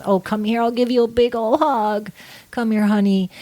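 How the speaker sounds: lightly voiced doting mother; a hint of cooing motherly comfort; nurturing mom. Astrologer acting out motherly Cancer offering a hug, lightly cooing.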